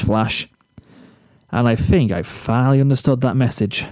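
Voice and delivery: a hint of a smug boy bragging about his hair; boastful Zephyr. Zephyr to Flash over lunch, lightly cocky and self-pleased.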